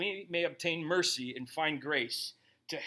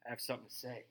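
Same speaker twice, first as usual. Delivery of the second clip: dry throat voice; 8 semitones lower, 4 dB quieter than usual. Retold or imitated. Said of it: "He just really went".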